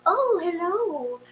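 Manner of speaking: put-on high, slow, drawn-out older Eastern European neighbor; high-pitched, lingering accented greeting. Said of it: "She talks like that".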